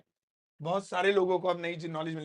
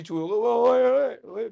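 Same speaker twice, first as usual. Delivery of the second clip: mock shout at mice; 3 semitones higher, 7 dB louder, much slower than usual. Teacher shoos mice away, shouting.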